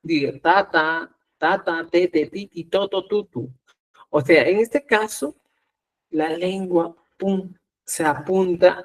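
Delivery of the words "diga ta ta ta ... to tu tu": "ta, te, ti, to, tu" each said twice, carefully; syllable drill. Shown as a demonstration. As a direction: repeat every syllable for the learners. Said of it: "Si usted se da cuenta, diga". (ejercicio de sílabas, cada una repetida)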